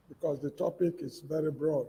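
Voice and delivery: too quiet to hear clearly; speaking softly into the mic; barely audible. Real, not acted. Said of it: "Your voice is very low".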